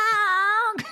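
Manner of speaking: high-pitched imitation chicken call; chicken noise. Shown as a demonstration. Podcaster showing his chicken act, high squawk. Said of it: "You have to make the noise".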